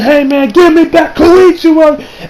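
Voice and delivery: high, drawn-out mock shout; retold demanding shout. Josuke running at the man for Koichi, shouted demand. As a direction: yell it as if charging at him.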